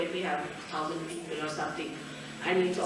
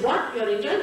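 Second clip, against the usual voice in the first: indignant surprise; 2 semitones higher, 6 dB louder than usual. Retold or imitated. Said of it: "She said".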